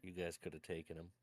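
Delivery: low, soft goading mutter; under the breath. Acted. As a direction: stir the pot quietly, under your breath. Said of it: "just under my breath say".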